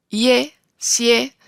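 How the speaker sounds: "ie, sie" punched out as separate stressed syllables; stressed syllable demo. Shown as a demonstration. Teacher isolating the tonic syllable of siento, "ie, sie" said with firm stress. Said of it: "es la sílaba tónica".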